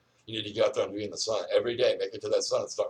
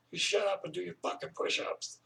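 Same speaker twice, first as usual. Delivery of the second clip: retold bark; 11 semitones higher, 4 dB quieter than usual. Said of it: "I told everybody".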